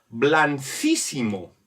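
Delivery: "blancísimo" as blan-císimo, soft c instead of k. Shown as a demonstration. Teacher showing the wrong-sounding form, soft c in "blancísimo". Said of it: "porque sonaría de otra manera".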